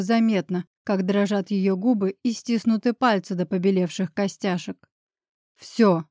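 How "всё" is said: mildly curt, single short answer. A narrator's reading. Narrator answering the woman's question, curtly. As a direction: toss it out briefly. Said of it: "коротко бросил я".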